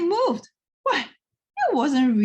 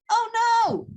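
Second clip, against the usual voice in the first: high, louder dismayed moan; moaning volunteer; 14 semitones higher, 6 dB louder than usual. A narrator's reading. Volunteer seeing the mess George made, high dismayed moan. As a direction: groan at the mess. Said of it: "moaned the volunteer".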